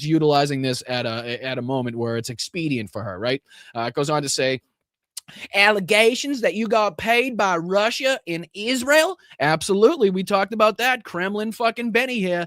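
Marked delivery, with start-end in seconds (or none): 5.5-9.2 high, sneering mock of an angry politician; mocking Greene voice. Host reading Greene's furious tweet aloud, mocking voice. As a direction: read her tweet as a shrill caricature.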